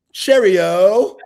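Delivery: high, loud British send-off; playful London accent, drawn out and rising; mock London accent. Host asked for his London accent, high mock-British call. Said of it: "What's your accent in London?".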